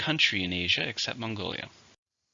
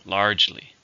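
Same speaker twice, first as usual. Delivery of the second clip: "Largely" with a strong, louder LARGE; stress on first syllable; 5 dB louder than usual. Shown as a demonstration. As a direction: punch the first syllable of "Largely", then fall. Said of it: "stress on the first".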